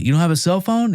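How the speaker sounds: high-pitched disbelieving question; retold incredulity, voice jumping up; incredulous. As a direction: echo it back in mock disbelief. Disbelief at reporter's excuse.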